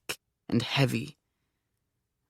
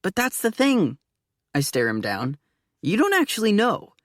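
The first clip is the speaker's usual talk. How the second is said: insistent; 5 semitones higher than usual. Acted. Insistent high argument.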